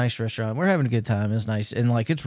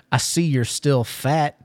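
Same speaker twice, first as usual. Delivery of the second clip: slow, drawn-out insult; retold insult; 2 semitones higher, slower than usual. Waiter to a diner he mistakes for Caleb, slow retold jab. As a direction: spell it out slowly, imitating the waiter.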